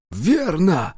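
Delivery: выдохнул громко, с облегчением; выпалить на выдохе разом. A narrator's reading. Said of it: "выдохнул наконец Дакука". (Дакука громко выдыхает: «Верно!»)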